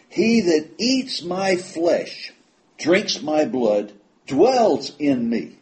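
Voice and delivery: high, slow, each phrase set apart; slow it down, this is the key verse; the preacher stressing the key verse, slow and high; key verse stressed. Acted. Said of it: "This is key".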